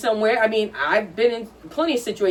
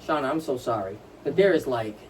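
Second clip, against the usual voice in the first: apologetic softness; 7 semitones lower, 5 dB quieter than usual. Retold or imitated. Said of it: "if she had said to me".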